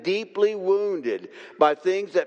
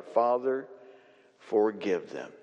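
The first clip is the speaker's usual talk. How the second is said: softer, lower reverent prayer; hushed prayer; 8 semitones lower, 5 dB quieter than usual. Acted. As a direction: breathe it out like a dying man's plea. Voicing Jesus' prayer on cross.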